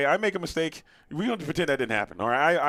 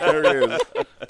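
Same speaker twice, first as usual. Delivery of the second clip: drawn-out exclaim; 5 dB louder, much slower than usual. Real, not acted. Exclaims at the laugh.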